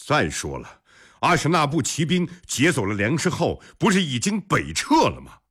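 high-pitched doubting question; puzzled disbelief. A narrator's reading. General questioning whether the raiders have already withdrawn, puzzled. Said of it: "尉迟敬德一脸疑惑".

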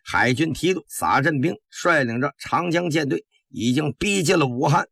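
brief the men in an eased, kindly voice. Acted. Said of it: "又放缓了口气，和蔼地说".

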